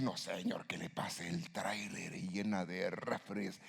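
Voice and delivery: mock revenge prayer, hushed then pushing; vengeful plea. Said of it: "A veces uno quiere reaccionar así".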